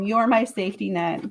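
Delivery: normal talking voice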